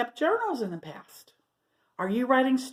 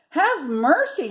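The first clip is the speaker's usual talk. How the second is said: high, loud, slow frightened plea; hammed-up terrified cry; mock scream; 7 semitones higher, 5 dB louder, slower than usual. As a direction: cry out as if startled. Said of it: "screamed Martha".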